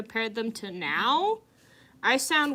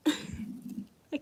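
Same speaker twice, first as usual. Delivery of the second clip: slow, soft drawn-out "I can't even"; mock valley girl; 8 dB quieter than usual. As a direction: parody a dramatic American white girl. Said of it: "American white girls be like".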